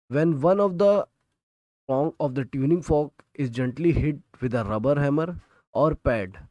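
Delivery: reading the textbook line word by word, slowly; slow, deliberate dictation for students to copy. Shown as a demonstration. Teacher dictating a textbook definition to students, slowly.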